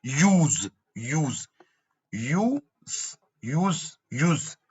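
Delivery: यूज said slowly, silent final E; drawn-out demonstration. Shown as a demonstration. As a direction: stretch यूज out, ending on a z sound with no vowel after it. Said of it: "ई का कोई sound नहीं है".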